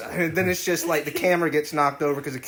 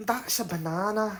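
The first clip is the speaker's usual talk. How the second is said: put-on Scottish accent on banana, soft and high; 5 semitones higher, 5 dB quieter than usual. Asked to say banana in scottish, speak in a scottish accent. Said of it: "Say banana in Scottish".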